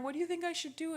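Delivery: high-pitched imitation of a tearful plea; retold crying. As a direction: mimic an upset sister calling home. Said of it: "So she called home crying".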